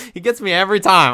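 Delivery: amused emphatic repeat. Real, not acted.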